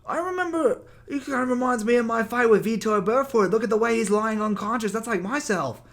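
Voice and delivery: high, loud, mock British accent; mock British Bisping. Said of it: "He's like".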